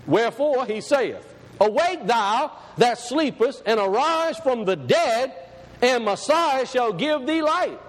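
slow, measured reading of the verse; scripture reading. Acted. Preacher reading the verse to his congregation, slow and measured. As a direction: lay each word out like holy writ.

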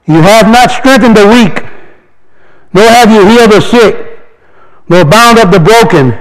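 slow, solemn reading of scripture. Acted. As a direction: read the verse like a proclamation. Reads scripture aloud.

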